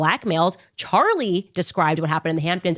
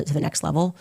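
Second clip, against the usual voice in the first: ordinary delivery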